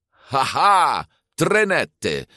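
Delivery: high, triumphant cry; excited exclamation. A narrator's reading. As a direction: call it out in high-pitched delight. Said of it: "riep ze uit".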